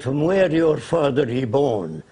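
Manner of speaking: slow, imitated Arab-accented English. Arab leader asking caller's origins, in a slow Arab accent. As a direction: put on a light Arab accent, slowly. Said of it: "He said in his accent".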